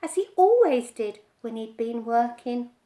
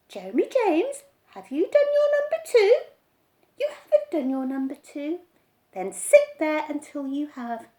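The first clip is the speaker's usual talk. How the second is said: higher, fast mock mother; boy imitating mother's nagging, higher; mimicking mother; 3 semitones higher, 6 dB louder than usual. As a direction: nag like mum.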